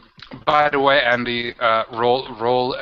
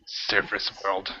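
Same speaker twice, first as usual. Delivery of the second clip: spat disgust. Acted. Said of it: "he just kind of spits like".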